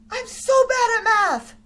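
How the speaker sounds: "I'm so bad at math" cried out loud and high; frustrated wail. Daughter crying "I'm so bad at math" in frustration. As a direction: wail "bad" like a fed-up child. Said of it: "she got super frustrated".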